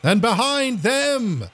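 high, drawn-out stadium announcer; race announcer. Acted. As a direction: call out the line-up slowly, stretching each name. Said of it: "The announcer comes on".

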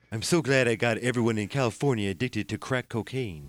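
lightly voiced Ronald Reagan; a hint of old Reagan voice; Reagan impression. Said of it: "slip into that voice".

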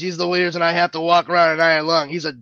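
lightly imitated Brooklyn tough guy; Brooklyn accent. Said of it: "I don't know why he was from Brooklyn".

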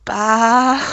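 muffled behind a hand; hand over mouth. Pretend. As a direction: say it through your palm. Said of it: "put my hand over my mouth and go".

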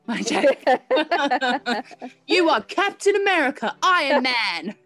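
loud, high hype-man shouting. Acted. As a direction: pump up the crowd, laughing. Hyping up listener as superheroes.

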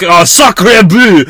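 loud, slow, high French exclamation; hammed-up outraged Frenchman; French accent. Mock French outrage at mountains.

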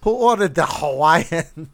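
put-on slow, shaky try at a Russian accent; attempted Russian accent. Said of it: "I'm trying to do a Russian accent".

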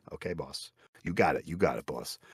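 low, soft mock obedience; meek compliance. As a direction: give in quietly, as if to the boss. Acts out deferring to the boss.

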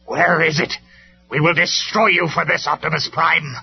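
high, loud, agitated threat; anxious villain. A narrator's reading. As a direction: demand and threaten in rising alarm. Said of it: "more anxious now".

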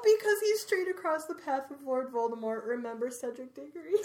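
pushing through the last lines weeping; reading through tears. Real, not acted. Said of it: "We're both sitting here crying".

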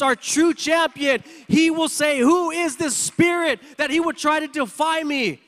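fervent sermon delivery; preaching. Acted. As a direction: preach it rising toward the climax. Preaching climax, building.

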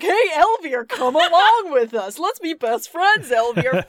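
high, bubbly mock invitation; mock friendly voice. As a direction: tease with a sing-song friendliness. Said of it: "you'll be like".

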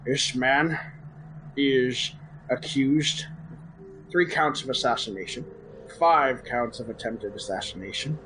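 stern executioner reading charges. Acted. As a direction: proclaim the sentence to the crowd. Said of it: "that was your best character voice yet".

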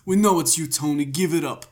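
put-on light New Jersey accent; New Jersey cop. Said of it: "They're like".

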